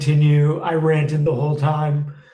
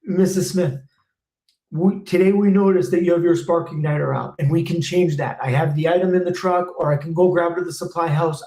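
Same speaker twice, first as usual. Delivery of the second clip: brisk, polite service-call pitch to a homeowner; quick, courteous technician offering options; sample customer pitch. Shown as a demonstration. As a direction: talk to Mrs Smith like a friendly tech. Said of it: "You're gonna be saving them money".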